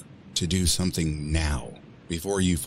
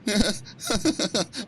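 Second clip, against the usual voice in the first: incredulous laugh. Acted.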